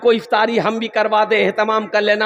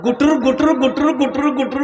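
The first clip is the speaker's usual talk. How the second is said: imitated puffing. Mimics puffing on a beedi.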